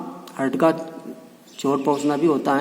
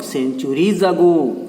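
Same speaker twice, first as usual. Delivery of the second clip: centuries ago said very slowly, every syllable weighted; slow, careful emphasis on centuries ago; stress on centuries ago; much slower than usual. Shown as a demonstration. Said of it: "सेंचुरीज अगो पर उसने जोर देकर के कहा".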